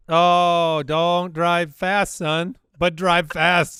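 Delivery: slow, drawn-out plea; strained restraint. Retold or imitated. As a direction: stretch each word out, holding it in. Acts out strained father to son.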